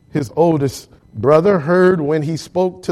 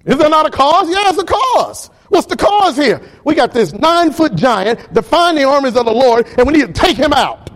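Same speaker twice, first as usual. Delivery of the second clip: preaching at full force; 7 semitones higher than usual. Acted. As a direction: build the rallying cry to a peak.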